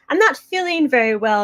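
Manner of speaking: retold complaint in a mild Mexican accent. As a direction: lightly imitate a grandma with a Mexican accent. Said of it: "she had this very heavy Mexican accent".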